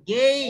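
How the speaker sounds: গেট said as "geit" with the ei glide; teacher showing how to say gate; pronunciation demo. Shown as a demonstration. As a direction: model গেট with a clear ei. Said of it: "এটা উচ্চারণ কি বলেন ভাই?".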